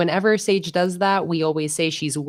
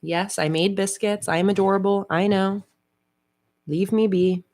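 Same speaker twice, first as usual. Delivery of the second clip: a bit higher, brisk diva cat; mock-annoyed pet's inner voice; lightly voiced grumpy cat; 5 semitones higher than usual. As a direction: brush off the fuss as the cat. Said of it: "She's like".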